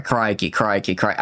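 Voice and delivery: attempted Aussie "crikey"; unconvincing Australian accent; aggressive Australian accent. Shown as a demonstration. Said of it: "saying crikey in a good accent".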